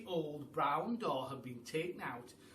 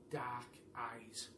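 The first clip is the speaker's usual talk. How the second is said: spooky whisper; 5 semitones lower, 7 dB quieter than usual. A narrator's reading. Eerie head staring back.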